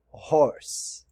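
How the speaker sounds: horse said with English h and r. Shown as a demonstration. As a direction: model the English word horse. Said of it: "Palavra para cavalo". (pronúncia inglesa de horse)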